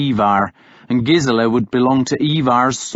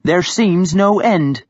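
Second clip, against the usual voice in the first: slow, dry and tart; a hint of weary scorn, drawn out; tartly; 8 semitones higher, 3 dB louder, slower than usual. A narrator's reading. Hild finishing her jab at men, slow and tart. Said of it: "Hild said tartly".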